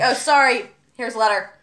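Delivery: the word apologising for its letters, mock chirpy; mock French word. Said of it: "They're like".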